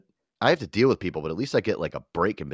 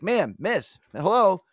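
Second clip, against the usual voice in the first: high, louder call to get her attention; mock cashier calling after a customer, pitched up; 11 semitones higher, 4 dB louder, much slower than usual. Cashier calls after a departing customer, loud and high.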